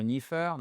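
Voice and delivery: NEITHER with an f for the th, NEE-fer; wrong th sound. Shown as a demonstration. Teacher mimics learners' shortcut, mispronounced th. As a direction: swap the th of NEITHER for an f. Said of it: "et pas neither ou neither".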